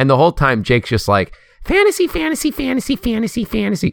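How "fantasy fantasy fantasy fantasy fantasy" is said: very high voice, babbling as if stuck on repeat. Telling how Jake went on the whole time during a weekend together, do the Jake voice. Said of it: "Sorry, Jake voice".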